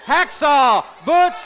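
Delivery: booming ring announcer introduction, stretching the names. Acted. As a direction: announce the fighters to the arena.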